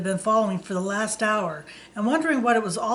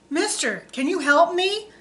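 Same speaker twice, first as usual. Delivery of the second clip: put-on pleading in a light Spanish accent, pitched up; desperate driver begging in a mild Spanish accent; 8 semitones higher than usual. A narrator's reading. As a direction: beg for help with a hint of a Spanish accent. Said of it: "begged the driver with a deep Spanish accent".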